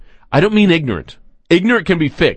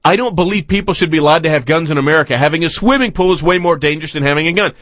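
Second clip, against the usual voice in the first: fast mocking quote; faster than usual. Host mocking a guest's quote, rushing through it. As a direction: rattle off her words fast, mocking. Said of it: "Is that what you're saying?".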